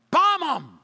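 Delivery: very high, loud shout; mock war cry. Preacher mocking a hawkish reaction to Iran. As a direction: bark it like a hawk. Voicing a warmongering listener.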